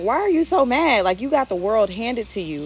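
demanding why he's so mad; exasperated relatives. Retold or imitated. Family asking the angry son why, exasperated.

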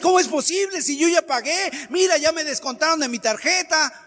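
mock indignation, wronged passenger; annoyed customer. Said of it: "hay un enojo porque dices". (cliente molesto, reclamo indignado y más agudo)

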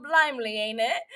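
mock English slang accent. Podcaster goofing about Skins UK, English accent. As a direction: put on a playful English accent. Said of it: "why I'm talking in that accent".

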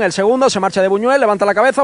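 usual speaking voice

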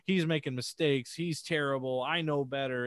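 mock arrogant player; smug gamer. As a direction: sneer at the team. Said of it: "so easy to just be like".

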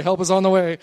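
preacher rousing the congregation, loud; loud call to neighbor. Shown as a demonstration. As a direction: say it out to your neighbor. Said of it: "Look at your neighbor and say".

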